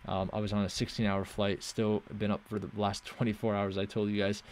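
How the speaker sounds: sleepy, worn-out talk; jet lagged. Real, not acted. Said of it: "I'm very tired as well".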